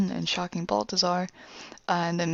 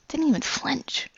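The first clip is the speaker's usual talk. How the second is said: higher, slow whispered remark; 7 semitones higher than usual. Retold or imitated. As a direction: whisper it in awe. Character recounts punch.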